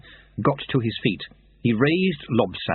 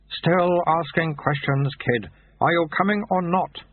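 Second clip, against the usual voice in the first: lightly voiced, higher, unhurried recruiter; dry, patient monk; 6 semitones higher than usual. Monk explains the offer to the falling thief, dry and patient.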